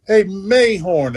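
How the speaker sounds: slow imitation of a French Lick drawl; mock French Lick accent, "Mayhorn" stretched; lightly imitated French Lick twang. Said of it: "his French lick tone".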